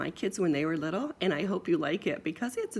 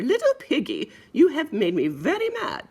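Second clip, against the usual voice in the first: mock mad mother; 7 semitones higher, 5 dB louder than usual. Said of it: "Said the mother".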